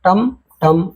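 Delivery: टम टम as two separate beats; broken into syllables. Shown as a demonstration. Teacher setting pupils a word to build, split in syllables. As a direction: split टमटम with a gap between halves. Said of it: "टमटम का meaning बनाओगे".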